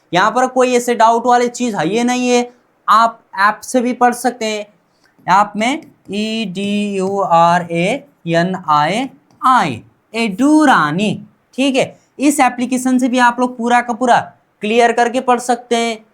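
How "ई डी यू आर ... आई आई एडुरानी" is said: slow spelling out. Shown as a demonstration. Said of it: "spelling out app name".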